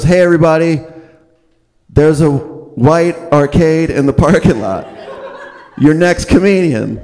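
high-pitched, spaced-out host voice; stoned host. Retold or imitated. Host on stage announcing a car, in a mock stoned voice. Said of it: "he was high".

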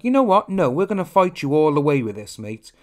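sharp, loud opening then settling down; mock combative reply; defiant comeback. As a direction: throw down the gauntlet as a company. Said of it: "Sony could be like".

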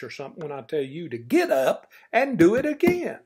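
coach-like rallying call. Real, not acted. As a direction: push them like a coach. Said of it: "I sound like an old coach".

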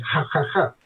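HA, HA, HA from the back of the throat; guttural. Shown as a demonstration. Radio ham showing listeners Irish throat sounds, guttural. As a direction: scrape each HA in the throat. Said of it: "high level of gutturality".

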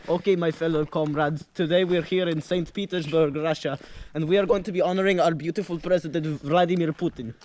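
put-on playful Russian tour-guide accent; lightly hammed Russian accent. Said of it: "a decently good Russian accent".

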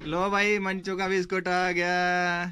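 slow, drawn-out announcement; calling out. Real, not acted. Man announces the child's biscuit has arrived, calling out slowly. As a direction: sing out the arrival, stretching the words.

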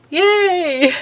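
high, bright little cheer; excited. Real, not acted. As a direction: squeal a quick yay. Mock cheer at more ultrasounds.

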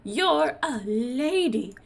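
slow, high, loud mock protest that drops back; hammed-up dismissal. Suitor telling Jasmine she cannot rule, mock condescending. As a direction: draw out the put-down in a put-on voice. He dismisses her in acted quarrel.

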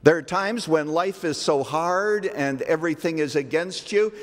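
normal talking voice

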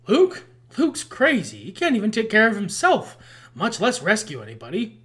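a hint of Han Solo, mocking the idea of Luke; lightly voiced Han Solo sneering; Han Solo impression. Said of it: "Good old Han Solo".

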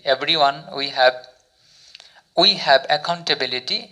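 very slow, word by word English; slow example sentence. Shown as a demonstration. Teacher reads example sentence to learners, very slowly. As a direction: spell out each word of the model sentence. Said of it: "use করে দেখি কী sentence".

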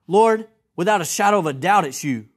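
emphatic, certain declaration falling away at the end; confident misreading. Shown as a demonstration. Preacher exaggerates Peter's certainty to make a point, confidently. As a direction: declare it as beyond question. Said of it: "No, he didn't say that, right?".

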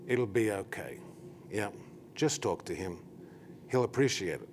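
gentle reassurance. Retold or imitated. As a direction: quietly reassure a nervous helper, unhurried. Retold sister reassures the nervous visitor.

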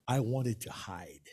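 low, soft and slow. Shown as a demonstration. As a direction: shrink into the words as if hiding. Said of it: "lower your voice".

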